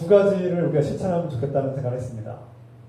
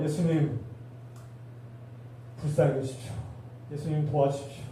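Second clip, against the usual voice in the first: hushed prayer; 2 semitones lower, 10 dB quieter than usual. Pretend. Model prayer quoted.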